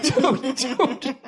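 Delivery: dude, dude broken up by laughter; laughing dude. Retold or imitated. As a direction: say "dude" while you can't stop laughing. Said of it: "Doing that dude while laughing".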